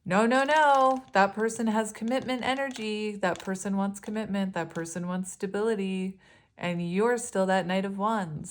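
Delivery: mock-alarmed inner voice of the ego; protesting ego. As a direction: cry no no no in alarm, then settle. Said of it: "their ego tells them".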